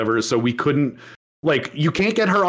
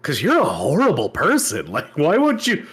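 mock appalled reader. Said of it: "anyone who reads it is like".

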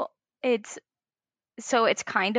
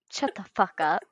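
retorting to husband. Retold or imitated. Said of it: "and I'm like".

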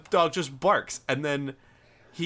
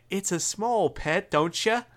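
slow, higher, hammed-up English accent; bad English accent; 5 semitones higher, slower than usual. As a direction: attempt a coaxing English accent, drawn out. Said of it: "I apologize to all English people for those, that accent".

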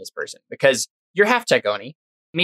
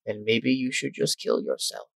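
much softer, deadpan put-down; cold quiet retort; 2 semitones lower, 9 dB quieter than usual. Acted.

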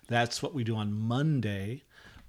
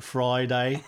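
mock British accent. Shown as a demonstration. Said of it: "Do it again".

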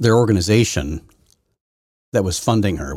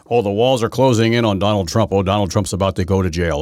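mocking Cohen; 3 semitones higher, 5 dB louder than usual. Host mimicking Michael Cohen's predictions, sneering mock. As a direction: ham up the breathless doom prophet. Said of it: "he's been saying".

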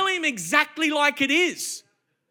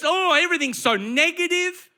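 lightly put-on complaining voice; mock whinging; 4 semitones higher than usual. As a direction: imitate a moaner with a mild whinge. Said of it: "just whinge and complain".

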